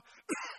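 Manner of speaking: brief acted cough; imitated cough. Man outside in his yard, acted cough. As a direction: give a short demonstrative cough. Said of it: "I actually coughed".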